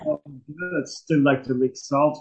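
slow, sultry purr. Shown as a demonstration. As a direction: draw it out seductively. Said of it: "a sultry voice as well".

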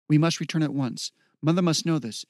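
a touch of urgent worry; worried. Acted. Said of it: "She sounded worried".

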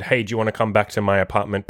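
retold offhand ask; half-hearted. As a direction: toss it out without much hope. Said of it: "like, a half-hearted".

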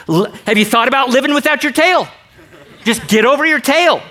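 high, laughing teasing push; laughing exasperation. Retold or imitated. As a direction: laugh while telling him to move on.

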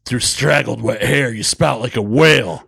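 rhythmic slam recital, each phrase falling; Def Jam poetry slam. Acted. Co-host reading a crude poem to listeners, slam style. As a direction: recite it in slam-poet cadence. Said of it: "I'm gonna do it like a fucking, a Def Jam".

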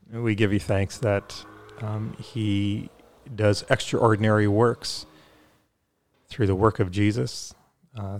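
measured prayer with pauses between phrases; spoken prayer. Real, not acted. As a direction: pray aloud sincerely, phrase by phrase. Leads a closing prayer.

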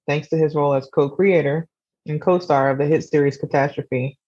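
measured book-summary narration; scripted synopsis read. Acted. Podcaster introducing a memoir to listeners, scripted narration. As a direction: read it out as a composed, even synopsis.

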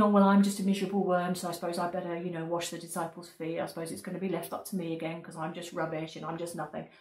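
quick, droning poor-me grumble; mock self-pity. Imagined disciple-washer putting himself down, in mock self-pity. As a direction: rattle it off like a put-upon martyr.

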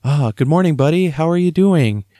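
dad waking his son with a cheery hello; cheerful morning greeting. Retold or imitated. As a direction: greet your boy brightly, as if just woken. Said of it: "I'd say".

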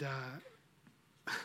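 chuckling tease; laughing. Real, not acted. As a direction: laugh as you hold back the ending. Laughs teasing the ending.

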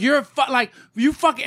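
high-pitched, sputtering mock yell; indignant but not full volume; retold yelling. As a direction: re-enact yelling at someone, words stumbling. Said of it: "as I'm yelling".

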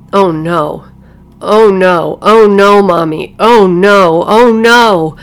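building to hysterical screams. A narrator's reading. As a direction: panic building to hysterical wails. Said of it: "she broke into total hysterics".

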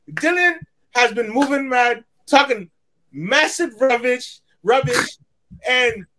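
mock British roadman slang accent. Talking to AJ's fans in a put-on UK accent. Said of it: "to sound with my U K accent".

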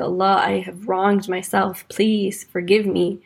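slow, humble, sincere repentance; humble plea. Acted. Adam repenting to Allah, slow humble plea.

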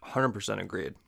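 talking around a mouthful of candy; mouth full. Real, not acted. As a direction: say it while chewing Skittles. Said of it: "Sorry, I have Skittles in my mouth".

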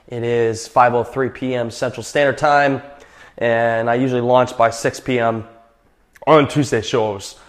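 slightly winded after a workout; a little breathless, catching breath. Real, not acted. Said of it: "Sorry, I'm a little out of breath".

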